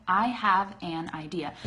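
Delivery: "I have an idea" in full, nothing shortened; full, unlinked words. Shown as a demonstration. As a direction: say "I have an idea" with every word separate. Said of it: "saying it like that all the time".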